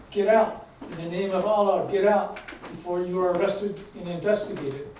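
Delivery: punchy opening command, settling into a firm warning; shouted order. Acted. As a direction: read a junior officer's outburst with some restraint. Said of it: "stood up and shouted".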